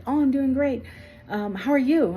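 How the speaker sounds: high-pitched phone small talk; imitated chirpy boss. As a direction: play the boss breezily doing great.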